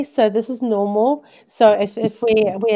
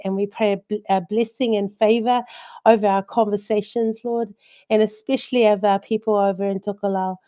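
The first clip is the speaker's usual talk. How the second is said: prayer. Acted. Host leads opening prayer.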